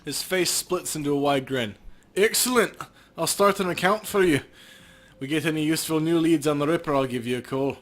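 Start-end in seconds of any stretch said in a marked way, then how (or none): 2.2-7.8 greedy cop. Acted. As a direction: savour the offer like a crooked cop. Cop closes the deal.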